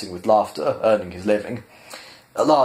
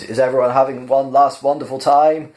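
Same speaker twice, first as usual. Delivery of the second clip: higher and louder showman question; rousing host; 5 semitones higher, 5 dB louder than usual. Acted. Max asking the audience if they're having fun, rousing. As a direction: fire up the crowd.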